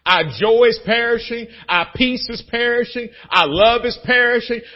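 ordinary delivery

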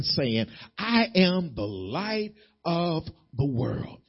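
slow, hushed reading of the verse; slow scripture reading. Acted. Preacher reading the verse to his church, slow and hushed. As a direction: lay each word down slowly.

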